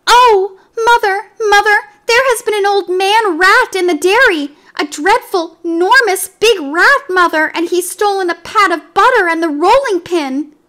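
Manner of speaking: high, loud panicked kitten cries; scared kitten tells mother of the huge rat; frightened kitten. A narrator's reading. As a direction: cry out to mother, scared stiff. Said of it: "said Mittens".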